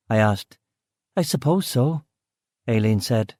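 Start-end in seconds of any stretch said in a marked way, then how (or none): 1.2-2.0 higher Belfast woman's voice, curt; brusque West Belfast cook. Acted. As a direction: Belfast woman, short with the visitor. Aileen answers.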